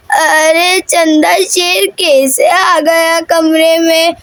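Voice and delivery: slow, drawn-out grandmother question; lightly voiced grandmother. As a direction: lightly play a puzzled old grandmother, stretching words. Grandmother figure questioning mother. (दादी की हल्की, धीमी आवाज़)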